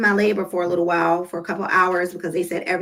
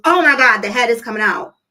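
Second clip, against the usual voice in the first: louder startled cry of a nurse; 3 semitones higher, 6 dB louder than usual. Retold or imitated. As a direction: nurse jolted by the sight. Nurse sees the baby coming.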